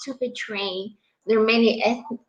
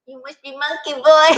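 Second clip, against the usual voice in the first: mishearing quoted; 4 semitones higher, 5 dB louder than usual. Retold or imitated. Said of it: "all I heard is".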